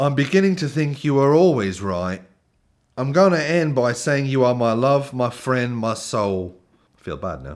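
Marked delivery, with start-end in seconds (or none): 0.0-6.6 put-on higher-pitched generic British accent. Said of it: "I'm just gonna do generic British accent".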